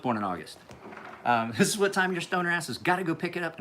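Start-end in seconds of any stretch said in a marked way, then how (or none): 1.6-3.6 sister impersonation. Retold or imitated. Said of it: "was that a good impersonation".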